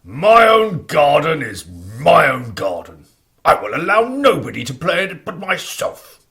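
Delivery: a loud selfish giant; bossy giant claiming his garden; nasty giant voice. Acted. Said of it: "big, nasty voice".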